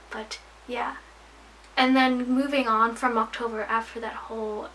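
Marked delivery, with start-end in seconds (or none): 0.1-1.0 soft unvoiced trailing-off whisper; whispered aside. Real, not acted. Vlogger trailing off to her viewers in a whisper. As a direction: drop to a breathy aside as the thought fades. Trailing off after subscriber goal.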